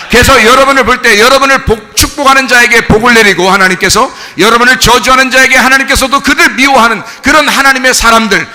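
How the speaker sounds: loud, emphatic pulpit exhortation; forceful preaching. Real, not acted. Preacher charging the congregation to be bold Christians, forceful preaching. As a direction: drive the charge home with conviction.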